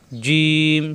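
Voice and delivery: "জিম" drawn out with a hard j; slow, firm "জিম"; firm palatal j. Shown as a demonstration. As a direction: press mid-tongue to the palate for "জিম". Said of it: "শক্ত করে উচ্চারণ করতে হয়".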